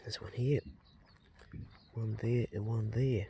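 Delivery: quiet unvoiced whisper. Real, not acted. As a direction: whisper it to yourself. Counting plants while planting.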